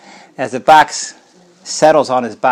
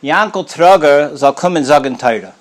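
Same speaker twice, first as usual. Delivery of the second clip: calling out. Retold or imitated. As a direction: call the name across the table. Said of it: "he calls out".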